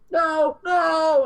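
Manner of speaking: high, loud shouted no from offscreen; Loomis screaming no. Retold or imitated. Retelling the ending as Loomis screams, high loud shout. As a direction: yell it out in horror. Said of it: "you just hear fucking Loomis".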